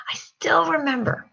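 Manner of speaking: tearful, breathy whisper; choked up. Real, not acted. Wife remembering the trip, choked up and whispering. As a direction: voice catching with emotion. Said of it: "I just get choked up".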